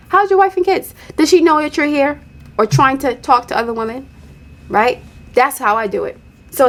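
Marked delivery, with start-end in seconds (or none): 0.1-4.1 playing dumb. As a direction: ask sweetly as if you know nothing. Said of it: "Let's play dumb".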